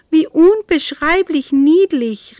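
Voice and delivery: high, loud, slow gushing; drawn-out squeal of delight; enraptured exclamation. A narrator's reading. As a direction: gush over something adorable, stretching the words. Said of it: "rief sie".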